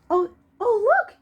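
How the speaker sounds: loud, high burst of Oh, oh; exclaiming. Acted. The boy with the pot spotting the hurt friend, loud high exclaim. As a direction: cry out in surprise at the find. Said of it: "he exclaimed".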